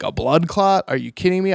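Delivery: can't believe it; shocked disbelief. Retold or imitated. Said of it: "I am just freaking out".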